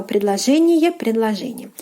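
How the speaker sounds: предложение repeated, the second whispered. Shown as a demonstration. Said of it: "Предложение means either sentence".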